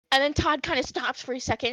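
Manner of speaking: usual speaking voice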